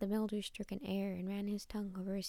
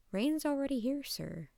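higher, louder cheery driver voice; amused taxi driver; 5 semitones higher, 6 dB louder than usual. A narrator's reading. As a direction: call it out lightly, higher at the start. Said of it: "The driver laughed".

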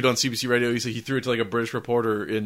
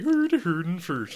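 slow, mock Scandinavian movie hero; goofy Scandinavian accent; 5 semitones higher, slower than usual. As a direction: put on a silly Nordic accent, drawn out. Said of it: "and they're like".

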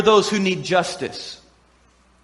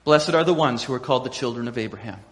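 smug crowd finishing; 8 semitones lower, 5 dB quieter than usual. Retold or imitated. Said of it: "all the people up there would go".

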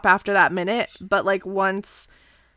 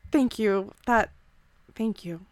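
soft, heartfelt thank you, quieter; sincere thanks; 4 dB quieter than usual. Acted. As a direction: Shael grateful to Dave for freeing them. Shael thanks Dave sincerely.

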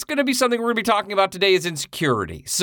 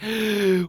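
mock gasp; 4 semitones higher than usual. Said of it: "then you're just like".

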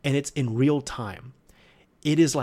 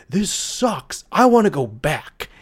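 loud, high-pitched yelled complaint; Barret yelling; 5 semitones higher, 7 dB louder, slower than usual. Retold or imitated. Quoting Barret's favorite line on the endless stairs, yelling. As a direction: yell it out like a fed-up game character. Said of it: "Barret, he just yells".

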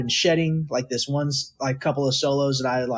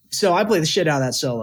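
proudly owning it, a bit quicker; cocky; faster than usual. Shown as a demonstration. Told to be cocky, he repeats it with swagger. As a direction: say it like you mean it, no apology. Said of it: "What's wrong with being cocky or full of yourself?".

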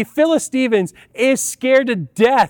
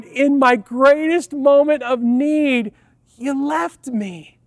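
mock dramatic; 3 semitones higher, slower than usual. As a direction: ham up the betrayal, dropping to a hush at the end. Sons mock-accuse mom after ride.

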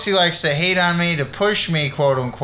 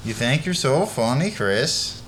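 Scandinavian; 3 dB quieter, slower than usual. Pretend.

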